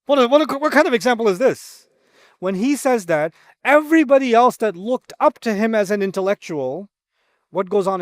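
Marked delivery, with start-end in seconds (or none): 0.0-1.9 dismissive, raised scoffing question; scoffing scholar. Retold or imitated. The scholar scoffs at the example in front of everyone. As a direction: scoff like a scornful authority. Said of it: "He comes out and says".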